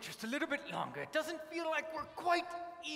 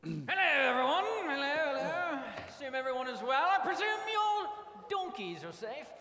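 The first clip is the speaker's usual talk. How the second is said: lightly put-on posh English accent. Joseph greeting his brothers in a mild posh English accent. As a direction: play the grand Egyptian host in a posh English accent. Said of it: "This accent is wearing on me".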